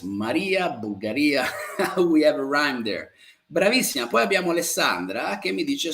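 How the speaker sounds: usual speaking voice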